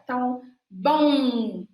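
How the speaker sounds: bom said slowly with lips pressed shut; forced pronunciation. Shown as a demonstration. Teacher exaggerating sounds for parents, slow forced bom. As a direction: bom drawn out, lips closing hard on the m. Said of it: "você pode forçar um pouco essa pronúncia".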